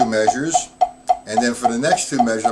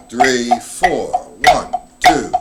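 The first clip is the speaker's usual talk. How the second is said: counted in loud over the playing; counting off the beats loudly for the class; 6 dB louder, much slower than usual. Shown as a demonstration. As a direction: call the beats out hard. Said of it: "accenting the one, two, three, four".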